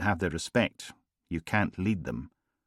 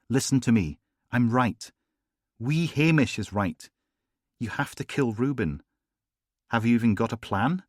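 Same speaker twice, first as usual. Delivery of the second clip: Samantha's voice; 5 semitones higher, 3 dB louder than usual. A narrator's reading.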